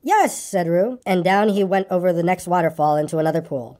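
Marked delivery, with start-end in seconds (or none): 0.0-0.3 tiny high squeaky voice; very high little squeak. A narrator's reading. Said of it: "squeaked Roo".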